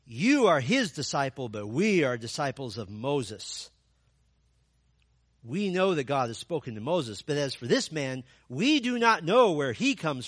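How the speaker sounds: loud scornful put-down; reviling. Acted. Pharisees abusing the healed man, a loud scornful sneer. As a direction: sneer at him with contempt. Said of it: "They reviled him, saying".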